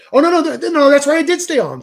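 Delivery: high, loud self-correction; oh wait, I did stay on; sudden realization. Real, not acted. Sudden correction, much higher.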